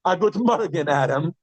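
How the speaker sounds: dry mock good morning; facetious good morning; sarcastic greeting. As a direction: tease a latecomer with "A good morgen, Adam". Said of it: "That's like a facetious way of saying".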